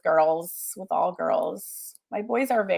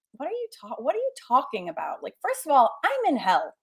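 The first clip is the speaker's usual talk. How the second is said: higher exasperated mock disbelief; incredulous young mom; 4 semitones higher than usual. Young mom answering the grocery store lady, exasperated. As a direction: sputter it out, half laughing. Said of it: "And I'd be like".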